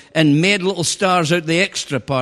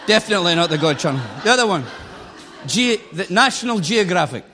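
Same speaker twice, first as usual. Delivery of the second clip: laughing; faster than usual. Real, not acted. Joking laugh about channel.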